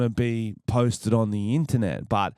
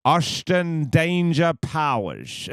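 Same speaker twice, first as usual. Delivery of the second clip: drawn-out, higher guest introduction; show announcer; 5 semitones higher, much slower than usual. Pretend. Host introducing his impersonator guest, drawn-out announcer flourish. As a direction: stretch out the big name reveal.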